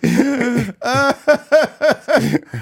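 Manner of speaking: high, loud words through laughter; squeezed out mid-laugh; helpless laughter. Real, not acted. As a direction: repeat it while cracking up. Cracking up while repeating the joke.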